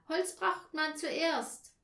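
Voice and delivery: high, loud and drawn out; excited shout. A narrator's reading. Anja tells the others what a fire needs, excited shout. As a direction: shout it slowly, insisting. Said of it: "schrie Anja".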